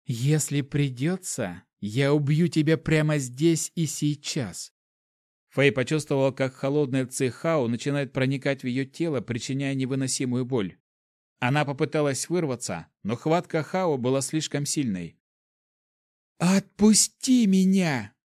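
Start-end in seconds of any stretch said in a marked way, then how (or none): 0.1-4.7 growling threat. Acted. Hao threatens to kill sister. 16.4-18.1 slow, loud, hoarse cry. Acted. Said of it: "прохрипела Фэй".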